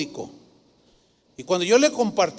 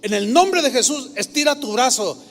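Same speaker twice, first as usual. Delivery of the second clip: loud, high command in Jesus' name; commanding prayer; 5 semitones higher, 5 dB louder than usual. Retold or imitated. Woman praying over the grandfather, loud commanding prayer. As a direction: order the arm to stretch.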